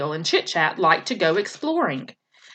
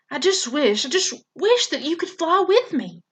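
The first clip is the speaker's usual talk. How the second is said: wistful gosling; 7 semitones higher than usual. A narrator's reading. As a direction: wish it gently, half asleep. Sleepy gosling's wish to mother.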